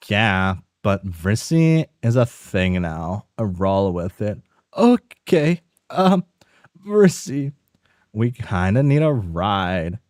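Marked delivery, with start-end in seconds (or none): 4.7-7.5 high, startled questioning voice; high confused caller. Acted. A confused friend on the phone asking who is calling, high and puzzled. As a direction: sound baffled on the phone.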